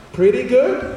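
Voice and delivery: high-pitched, questioning mom voice; imitating an unimpressed mother; lukewarm mom. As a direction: lift it high into a doubtful question. Mom's lukewarm reply to celebrity.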